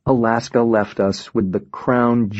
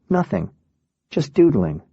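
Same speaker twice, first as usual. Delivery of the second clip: Alaska, offhand; 4 semitones higher than usual. Retold or imitated. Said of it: "And she says".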